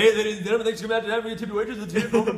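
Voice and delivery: high, loud sleazy club announcer; strip club DJ voice. Pretend. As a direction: sell it like a seedy club MC. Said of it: "the weird strip club guy voice".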